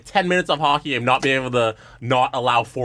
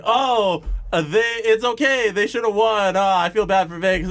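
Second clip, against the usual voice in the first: higher, lightly mocking imitation; mock sympathy; 4 semitones higher than usual. Arguing back at co-host's supposed view, mock sympathetic. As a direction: imitate your opponent's hand-wringing, pitched up. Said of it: "I'm arguing you're saying".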